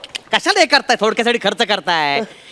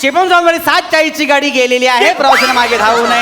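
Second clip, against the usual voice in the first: station announcement; 3 semitones higher than usual. Acted. Station announcement over speakers.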